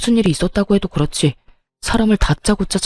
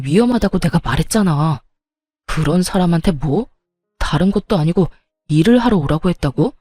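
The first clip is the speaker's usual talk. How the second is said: angry yelling. Acted. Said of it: "소리를 고래고래 지르며 시모에게 화를 내기".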